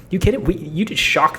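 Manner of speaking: high, punchy incredulous question; amazed disbelief. Real, not acted. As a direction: sound floored by how good it is. Amazed reaction to the hook.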